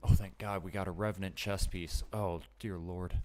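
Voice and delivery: dry mock relief; sarcastic. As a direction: fake gratitude, laying it on. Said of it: "Sarcasm, y'all".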